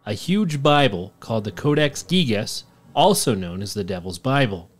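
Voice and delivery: measured documentary-style narration; story narration. A narrator's reading. Host reading the Codex Gigas legend, narrating. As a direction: read it like a legend being told. Reads a scripted legend account.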